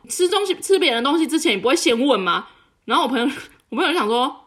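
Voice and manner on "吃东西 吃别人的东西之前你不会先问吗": mock shout. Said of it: "然后就大喊".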